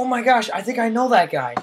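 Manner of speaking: mock excitement. Escaping the talk, faking excitement at a passerby. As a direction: feign spotting an old friend, a bit hammed-up. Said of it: "Be like".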